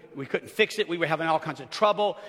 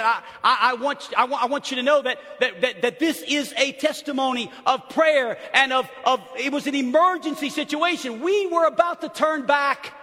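loud, higher, emphatic retelling; excited testimony; 5 semitones higher, 4 dB louder than usual. Retold or imitated. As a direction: build to an emphatic, raised-voice testimony. Retelling pastor's thrilled testimony.

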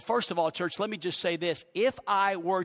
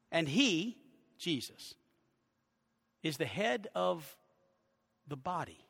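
slow scripture reading; 3 semitones lower than usual. Real, not acted. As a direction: read phrase by phrase so each one sinks in. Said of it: "I'll read it slowly".

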